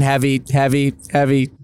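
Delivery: robot voice looping a word; skipping like a glitching robot. Acted. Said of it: "You're kinda glitching out there".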